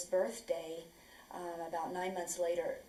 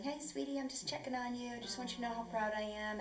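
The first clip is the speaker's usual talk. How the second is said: affectionate voicemail; 6 semitones higher, 3 dB quieter than usual. Retold or imitated. Voices his affectionate phone messages.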